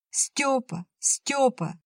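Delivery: высокий отчаянный зов; кричи ему вслед, чтобы обернулся; крик. A narrator's reading. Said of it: "закричала она". (Лушка кричит вслед уходящему Степану)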